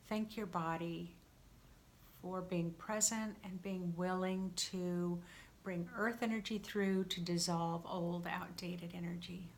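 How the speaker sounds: calm, unhurried meditation guidance; guided meditation. Real, not acted. Guide settling listeners for a cleansing breath, calm meditation voice. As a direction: ease them into it, leaving gentle pauses.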